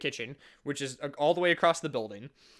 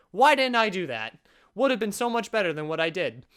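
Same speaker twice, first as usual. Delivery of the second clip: sarcastic; 2 semitones higher, 3 dB louder than usual. Retold or imitated. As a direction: pretend to kick yourself for it. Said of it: "that was sarcasm".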